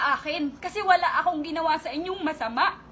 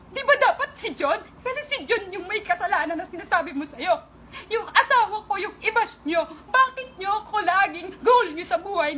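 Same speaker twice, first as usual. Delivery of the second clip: higher-pitched, heated outburst; indignant protest; 3 semitones higher than usual. Real, not acted. Asking bashers why she is always their target, indignant. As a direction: push it out in real, aggrieved protest.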